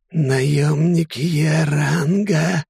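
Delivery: high, very slow alarmed exclamation; startled gasp. A narrator's reading. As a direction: recoil in sudden fright. Snake startled by rank.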